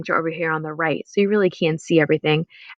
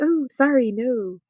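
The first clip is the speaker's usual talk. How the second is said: high "Oh", then a flat no; mock refusal; 5 semitones higher, slower than usual. Shown as a demonstration. Teacher acts turning someone down, higher. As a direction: brush off politely. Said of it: "It's like".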